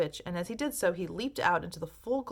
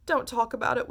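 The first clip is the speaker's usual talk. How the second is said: mild wail; 6 semitones higher, 6 dB louder than usual. A narrator's reading. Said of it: "wailed Missus T V".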